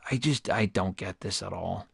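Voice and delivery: whispered in quiet disbelief; real deflated whisper; defeated whisper. Real, not acted. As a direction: breathe it out, beaten. Defeated after rejection.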